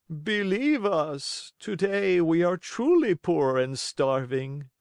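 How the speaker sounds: high, slow whining plea; pleading fox. Acted. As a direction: beg pitifully for mercy. Fox begs again.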